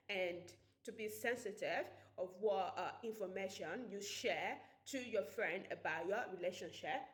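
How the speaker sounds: light attempt at a British accent; a self-confessed shaky try at British English. Shown as a demonstration. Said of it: "I am going to do my British accent".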